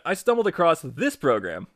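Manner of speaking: normal talking voice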